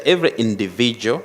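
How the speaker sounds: "individual" picked out as the key word; stress on INDIVIDUAL. Real, not acted. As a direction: read "every individual" with deliberate emphasis. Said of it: "emphasis on the individual".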